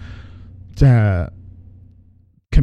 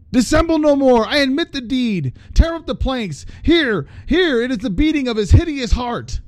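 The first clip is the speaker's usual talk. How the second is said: much higher, crazed cry; frantic confession; 12 semitones higher than usual. Acted. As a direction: unravel as you confess. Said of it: "I shrieked".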